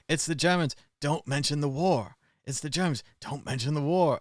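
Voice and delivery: lightly voiced frantic hotel owner; quoting Basil Fawlty. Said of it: "he's constantly saying".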